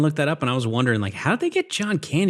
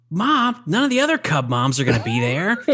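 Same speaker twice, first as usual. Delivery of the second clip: embarrassed son; 5 semitones higher than usual. Retold or imitated. Retelling the boy pleading with his mom, high. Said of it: "He's like".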